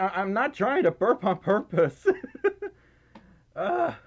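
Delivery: laughing. Real, not acted. Laughs about an accidental burp.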